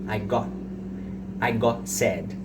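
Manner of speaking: "got" sem soltar o T final; T final omitido. Shown as a demonstration. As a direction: diga "got" quase como "gó", engolindo o T. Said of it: "eu não tô falando". ("got" com o T final mudo)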